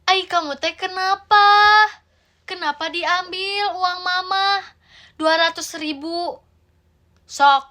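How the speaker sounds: exasperated Sundanese mother. Acted. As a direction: lament and scold like a village mother. Sundanese mother scolds child.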